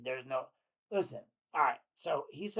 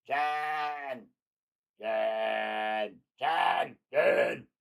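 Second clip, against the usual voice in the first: loud repeated desperate yells of Jen; shouting her name; 8 dB louder, much slower than usual. Acted. Host acting JD calling Jen, shouting her name over and over. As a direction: call after her louder each time. Acting out his frantic calls.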